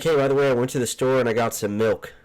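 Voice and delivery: loud mock announcement; imitated housemate announcement. Roommate reporting a trip to the store, in a loud mock announcement. Mimics people reporting what they bought.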